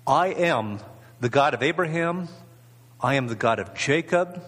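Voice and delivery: deliberate, measured declaration with pauses between phrases; very precise. Acted. Preacher quoting God speaking to Moses, very precisely. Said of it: "he said very precisely".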